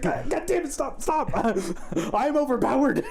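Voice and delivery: high, whining overpowered villain; whiny villain. Retold or imitated. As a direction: whine like a beaten boss. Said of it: "He's like".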